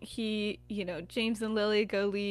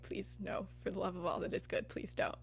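low-key, deadpan refusal, softer; unamused plea; 3 semitones lower, 8 dB quieter than usual. Retold or imitated. Friends shutting down Sirius's joke, unamused. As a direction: plead quietly, not having the joke. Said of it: "they're just not having".

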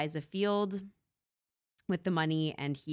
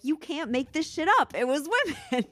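mock believer; 10 semitones higher, 5 dB louder than usual. Mock believers defending story.

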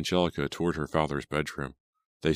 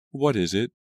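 high, louder impatient question; impatient fiancée, pitched up; 7 semitones higher, 5 dB louder than usual. A narrator's reading. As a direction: press him for the answer. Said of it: "Angelica replied impatiently".

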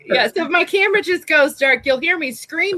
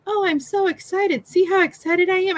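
mock flat excitement; 5 semitones higher than usual. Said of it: "you don't get above a whisper".

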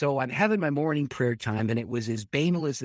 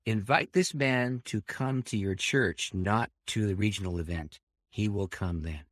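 commanding voice; 3 semitones lower than usual. Retold or imitated. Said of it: "but it was commanding".

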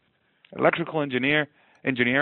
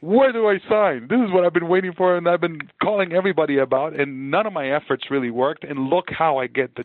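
retold excitement; 4 semitones higher than usual. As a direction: burst out like he can't believe his luck. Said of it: "And I was like".

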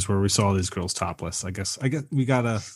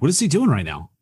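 baffled reaction; 6 semitones higher, faster than usual. Retold or imitated. Acting out bafflement at the accent.

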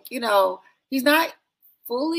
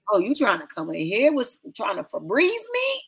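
laughing; 3 semitones higher than usual. Retold or imitated. Quoting Wes, breaks into laughter.

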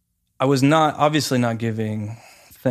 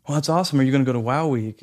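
eager friendly guy; 3 semitones higher, faster than usual. Retold or imitated. Voicing the eager man.

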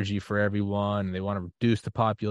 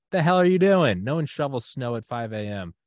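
higher, louder exasperated father; mock gruff dad; 4 semitones higher, 4 dB louder than usual. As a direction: bark it like a baffled dad. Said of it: "his dad ... goes".

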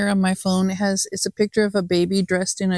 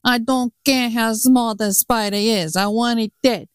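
Italian accent; 2 semitones higher than usual. Shown as a demonstration. Tuxedo baby ordering a spider killed, Italian accent. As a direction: put on an Italian mobster accent. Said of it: "somebody saying it in an Italian accent".

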